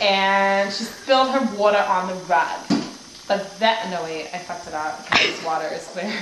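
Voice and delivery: mild mock TV ad voice; lightly done advert pitch for carpet cleaner. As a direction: sell it like a cheesy commercial. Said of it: "it's like a carpet cleaner advertisement".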